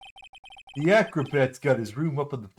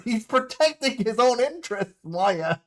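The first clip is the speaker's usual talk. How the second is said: indignant; 7 semitones higher than usual. Real, not acted. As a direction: push back, exasperated. Indignant correction.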